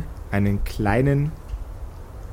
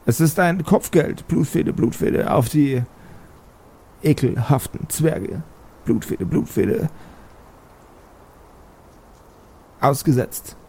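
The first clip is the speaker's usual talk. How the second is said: witch voice chanting a refrain between words; eerie hag skull announcing doom; cackling witch skull; 3 semitones higher than usual. Acted. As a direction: croak the bounty like a hag's broadcast. Skull message resumes.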